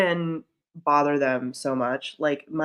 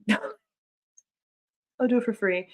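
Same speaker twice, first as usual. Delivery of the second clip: very slow, laughing through the words; slow laughing repeat; laughing, drawn out; 6 semitones higher, much slower than usual. Real, not acted. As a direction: laugh it out slowly.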